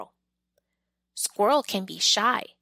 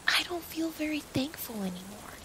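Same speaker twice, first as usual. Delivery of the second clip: much softer, quiet and downcast; quietly; 5 semitones higher, 7 dB quieter than usual. Acted. Pearl in the soaked box, quietly sad. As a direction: say it quietly to herself. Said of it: "she says quietly".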